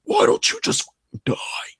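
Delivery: low demonic growl; deep growly voice. Retold or imitated. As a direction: growl it like an evil spirit. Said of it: "It was like a deep, growly voice".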